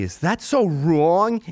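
drawn-out rhetorical plea, rising at the end; pleading question. Acted. Comic to audience about wanting friends happy, pleading question. Repeats own plea, escalating.

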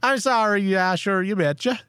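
put-on Upper Midwest accent; Minnesota accent. Shown as a demonstration. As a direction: demonstrate the Minnesota version.

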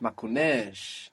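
"Makunesh" said slowly with a long E-like A; stretched A like E. Shown as a demonstration. Teacher models Makunesh for the student, stretched E-like A. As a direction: draw out the last vowel of "Makunesh" towards an E. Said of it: "stretched A can sound more like an E".

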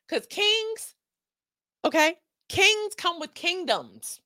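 Kings high and drawn out slowly; slow, high lecture on kings; stress on kings. Acted. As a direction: lean hard into Kings, slow.

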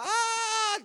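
high mock scream of terrified children; children's scream. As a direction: shriek like frightened kids watching. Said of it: "alla barnen bara".

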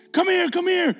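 high, loud urgent call; retold scream. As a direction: yell like a kid calling someone over. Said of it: "kids suddenly start screaming".

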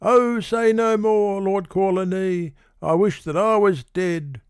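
put-on high, anxious young woman; a high voice, anguished but declaiming; Mabel distressed. A narrator's reading. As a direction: fret high and fast in a swirl of panic. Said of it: "she said".

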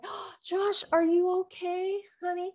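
high, tender mom voice comforting her fallen son; mother soothing child. Retold or imitated. Mom running to her crying son, high tender coo. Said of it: "I'm like".

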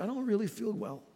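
low, soft voice faking illness; feigned sick whisper. Acted. Alligator wife feigning sickness to husband, soft sickly voice. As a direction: put on a mild sickly near-whisper. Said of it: "started speaking a whisper".

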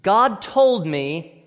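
slow, loud mock claim of revelation; sarcastic imitation of someone claiming God spoke. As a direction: drag it out like a self-appointed prophet. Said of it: "then fill in the blank".

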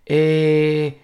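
panicked rising no no no; terrified no. Retold or imitated. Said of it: "A better impression".

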